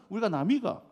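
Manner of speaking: another clumsy Gyeongsang dialect try, ending on a rise; Gyeongsang dialect again. Retold or imitated. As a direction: give the Gyeongsang slogan another go. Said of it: "진짜 서투르네". (다시 해보는 서투른 경상도 사투리)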